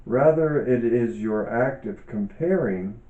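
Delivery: calm, measured reading aloud with pauses; book reading. Acted. Author reading her yoga book to listeners, calm and measured. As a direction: read each phrase thoughtfully, like a teacher sharing a text.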